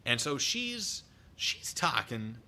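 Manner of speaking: normal talking voice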